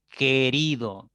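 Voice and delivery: "querido" slowly as ke, rido, U silent; syllable demo. Shown as a demonstration. Teacher shows students que is no diphthong, slow syllables. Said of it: "que no es diptongo".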